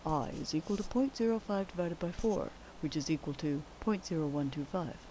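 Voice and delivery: hushed golf commentator; soft, hushed play-by-play; golf announcer voice. Acted. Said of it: "I'm turning into my golf announcer voice".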